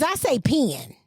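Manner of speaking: slow PEN as "pee-in"; country pen. Shown as a demonstration. Host defending her speech, slow PEN as "pee-in". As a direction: say "pen" slowly, like a country "pin". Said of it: "Mine's was country".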